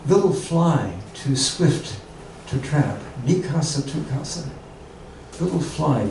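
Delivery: measured poetry reading with long pauses; haiku reading. Acted. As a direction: let each phrase of the haiku settle. Reads haiku, each one twice.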